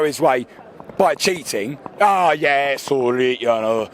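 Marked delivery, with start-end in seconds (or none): 2.0-3.9 hammed-up German-accented manager; mocking German accent impression; bad German accent. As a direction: put on a terrible German accent, drawn-out and falling. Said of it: "that's the worst German accent I've ever done".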